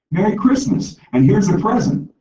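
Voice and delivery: put-on high, bright little-girl voice; a six-year-old offering her gift; piping child handing over a present; little girl's voice. Little girl greets old woman.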